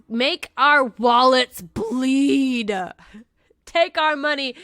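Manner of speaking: slow, drawn-out mock plea; milk it like a melodramatic beggar; mock dramatic plea. Cohost begging listeners for reviews, slow and hammed-up.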